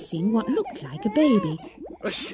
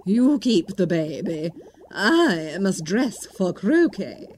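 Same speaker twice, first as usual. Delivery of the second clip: 1 Duchess; slower than usual. Acted. Duchess voiced.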